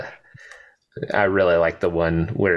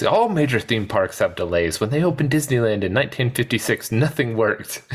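higher, fast defensive complaint; bemoaning Hammond; 5 semitones higher than usual. Retold or imitated. Podcaster quoting Hammond's excuse, fast and defensive. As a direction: rush through the excuse. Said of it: "Hammond bemoaning".

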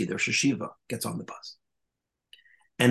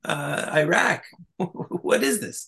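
mock Kissinger; 7 semitones higher than usual. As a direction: ham up a diplomat rushing to tell everyone. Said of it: "Henry Kissinger says".

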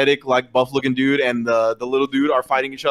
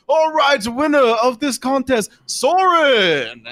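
high, drawn-out ring announcer call; judge announcing winner; 12 semitones higher, much slower than usual. Acted. Judge declares the winner to the crowd, announcing. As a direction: proclaim it slowly, building to the name. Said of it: "the judge, uh, goes".

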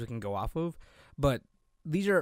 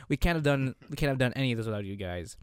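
normal talking voice

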